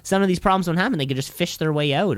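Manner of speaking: put-on a loose, doubtful New Jersey accent; attempted New Jersey accent. Mayor brushing off townspeople's problems, attempted New Jersey accent. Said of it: "Is that supposed to be New Jersey?".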